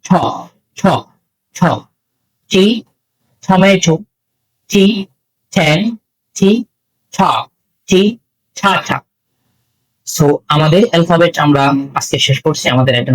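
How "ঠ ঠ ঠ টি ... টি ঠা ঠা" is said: "ঠ" released with a puff of air; isolated T sounds and example words, aspirated for learners. Shown as a demonstration. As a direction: model the breathy release in "ঠ" and "ঠা". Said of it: "এরপর টি".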